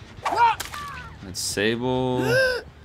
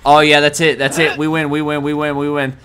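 higher, urgent repeated cheer; eager excitement; 4 semitones higher, 5 dB louder than usual. Real, not acted. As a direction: chant it to yourself, victory in reach. Spots the winning chance.

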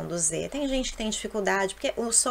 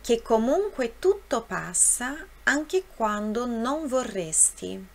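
measured model reading in Italian; read aloud for repetition. Shown as a demonstration. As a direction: read each verse clearly for learners to follow. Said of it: "eu vou ler e vou deixar um tempo".

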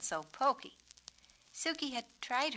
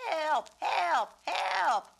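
loud, high cries of help; cry for help; 9 semitones higher, 8 dB louder, much slower than usual. Acted. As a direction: call out desperately for help. Peacock crying for help.

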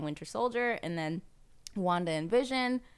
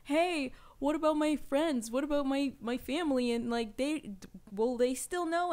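Peter pleading; 5 semitones higher than usual. Retold or imitated. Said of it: "he's like".

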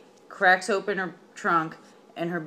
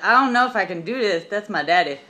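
put-on nervous girl voice; 3 semitones higher, 6 dB louder, faster than usual. Girl voiced in retold myth.

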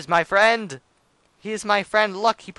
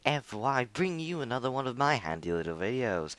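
low, booming showman intro; announcer voice; 6 semitones lower, 8 dB quieter than usual. Acted. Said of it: "Out of my announcer voice".

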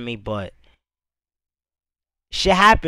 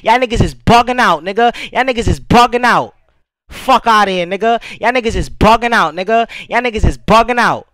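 angry rant. Real, not acted. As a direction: tell the haters off. Cursing out critics.

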